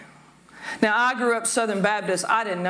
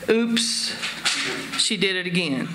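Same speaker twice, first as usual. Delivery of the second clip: a light pop-star impression of the lyric, only mildly changed from her own voice; a playful half-sung mock of the pop line; a pop singer; 3 semitones lower than usual. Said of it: "I'm gonna do my best Britney Spears imitation".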